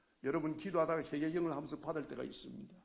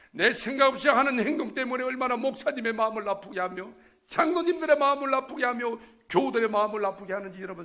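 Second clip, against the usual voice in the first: loud, high sermon exhortation; fiery preaching; 9 semitones higher, 12 dB louder than usual. Acted. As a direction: preach it out to the congregation. Preaching at full force. (큰 소리로 열정적으로 설교하듯)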